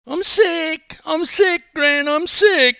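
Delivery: high, loud desperate plea; pleading child. A narrator's reading. Boy dragged back to poolside begs Gran, high and loud. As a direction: cry out to Gran as if begging. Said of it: "Glenn pleaded".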